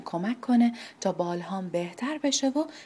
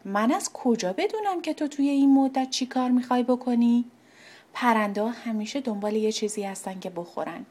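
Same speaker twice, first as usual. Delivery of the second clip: put-on a huffy old oak who distrusts birds; annoyed; 3 semitones higher, 3 dB louder than usual. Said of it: "دلخوری گفت". (کمی دلخور و بدگمان)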